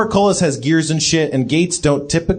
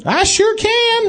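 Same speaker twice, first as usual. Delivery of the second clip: put-on robot baby voice; slower than usual.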